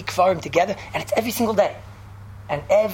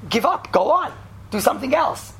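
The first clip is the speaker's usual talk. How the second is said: emphatic, slightly raised retold command; emphatic message; 4 semitones higher than usual. Telling Rabbi Kiva to quit, emphatic. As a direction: imitate a clear, firm message to quit. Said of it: "such an emphatic, clear message".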